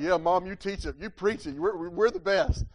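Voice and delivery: slowing on the brag at the end; eager sons. Retold or imitated. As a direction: pump it up like sons cheering their mom on. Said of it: "They're like".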